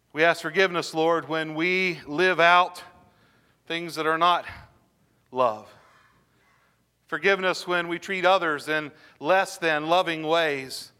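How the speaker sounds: measured, earnest pastoral prayer; closing prayer. Acted. Pastor leading the congregation in prayer, earnest and measured. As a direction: pray it steadily, asking forgiveness.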